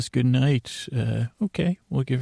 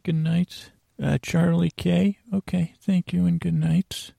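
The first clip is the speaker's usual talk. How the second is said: higher-pitched pretend teacher taking attendance; 6 semitones higher than usual. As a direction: put on a teacher voice for roll call. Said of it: "I gotta get my teacher voice on".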